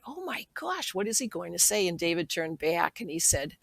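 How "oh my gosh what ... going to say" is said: frightened thought. Retold or imitated. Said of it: "And I thought".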